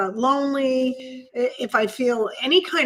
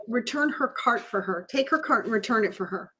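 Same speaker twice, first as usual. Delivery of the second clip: softer, understated inner prompting; quoted inner voice; 6 dB quieter than usual. Retold or imitated. Inner voice nudging her to help the woman, softly. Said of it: "this kind of, like, voice came in and said".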